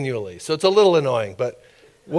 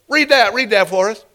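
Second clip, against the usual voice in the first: lightly acted official, pitched up; mock ordering official; 6 semitones higher, 3 dB louder than usual. Officials push a paper under his nose, mock order. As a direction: order him to read, as a storyteller mimics it.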